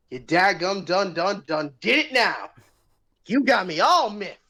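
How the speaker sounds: a hint of an old Western cowboy; lightly voiced angry Southern cowboy; cowboy drawl. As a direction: growl it like an angry frontier sheriff. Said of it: "What was that?".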